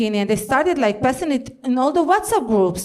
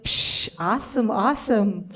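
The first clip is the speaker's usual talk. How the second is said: quiet mock admiration; 4 semitones lower, 5 dB quieter, slower than usual. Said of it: "he goes".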